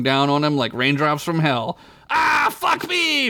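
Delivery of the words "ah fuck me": very slow, high laughing shout; dismayed shout. Acted. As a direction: curse as the rocks come down. Rocks falling on Vec.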